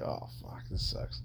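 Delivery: hushed whisper under the breath. Retold or imitated. Retelling a private moment at work.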